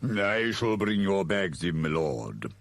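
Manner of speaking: slow, lightly voiced butler; unhurried, sinking at the end; deferential servant. Igor to his lord, slow and dutiful.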